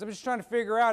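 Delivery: dad thinking aloud. Retold or imitated. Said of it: "He goes".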